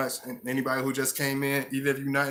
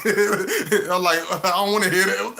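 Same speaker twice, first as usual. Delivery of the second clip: high, loud whining protest; answering the shoulder voice with a high, loud pout; pouty attitude; 6 semitones higher, 4 dB louder than usual. Retold or imitated. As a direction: sulk and refuse, pitched up. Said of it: "I wanna pout and have an attitude".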